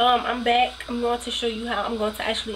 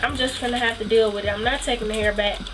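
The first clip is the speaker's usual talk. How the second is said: stuffy nose from a cold; sick, stuffed-up voice; blocked nose. Real, not acted. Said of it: "why I'm sounding stuffy".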